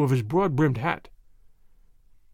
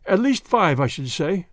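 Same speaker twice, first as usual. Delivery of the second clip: obsequious. Acted. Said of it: "he replied obsequiously".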